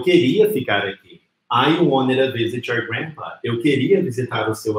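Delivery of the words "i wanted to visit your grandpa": "wanted to" said "wonnida"; slow model sentence, "wanted to" reduced to "wonnida"; forma reduzida. Shown as a demonstration. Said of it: "transformar num sonzinho como a". ("wanted to" reduzido a "uónira")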